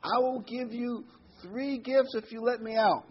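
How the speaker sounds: storyteller's high genie bargain. Retold or imitated. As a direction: tempt him with a high, coaxing genie voice. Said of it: "The genie says".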